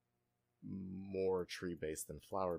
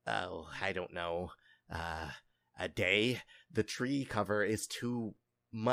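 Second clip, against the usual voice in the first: another voice; 5 dB louder than usual. Acted. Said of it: "another voice that says".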